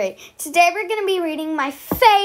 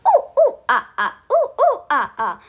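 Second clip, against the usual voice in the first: monkey calls; 5 semitones higher, faster than usual. Acted. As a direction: whoop like a playful monkey. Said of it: "They were saying".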